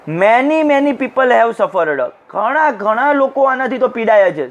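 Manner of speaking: "Many, many people have suffered" slowly, weight on each word; stressing each word. Acted. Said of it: "council Goyal stressed each word".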